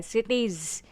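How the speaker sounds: "सिटीज" with a buzzed final z; buzzing iz ending. Shown as a demonstration. Teacher giving a plural example, "सिटीज" ending in buzzed iz. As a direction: let "सिटीज" end in a buzz. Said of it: "आईज़ेड का buzzing sound आ रहा है".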